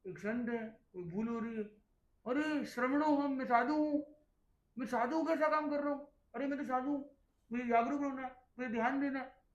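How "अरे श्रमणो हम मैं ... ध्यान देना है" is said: higher and louder, urgently reminding himself; a monk catching his own slip, earnest; earnest self-reminder. Retold or imitated. A monk realises his mistake and urges himself earnestly.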